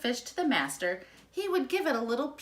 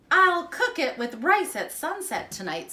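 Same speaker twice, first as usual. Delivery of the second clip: louder, higher delighted father; pleased father; 4 semitones higher, 4 dB louder than usual. Acted. The father gloats over the duck caught for dinner, mildly pleased. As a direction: welcome dinner with glee. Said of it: "said the boy's".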